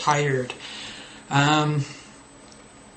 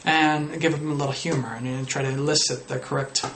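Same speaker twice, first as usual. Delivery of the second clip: usual speaking voice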